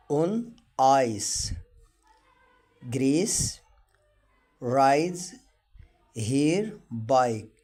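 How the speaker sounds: very slow, word by word, each word stressed; slow reading for learners. Shown as a demonstration. Teacher reads sentences slowly for students. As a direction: read it out slowly for beginners to follow. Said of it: "ونقراها مع بعض".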